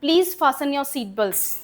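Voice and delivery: very slow, every word spelled out by sound; slow example read. Shown as a demonstration. Teacher reading an airline line to students, slow and clear. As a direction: read it out slowly for the class to copy. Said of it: "teacher repeats example sentence".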